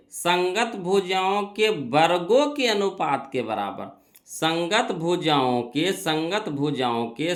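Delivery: slow, spaced-out recital of a rule; deliberate, measured teacher repetition; slow rule drilling. Real, not acted. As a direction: drum it in slowly, word by word.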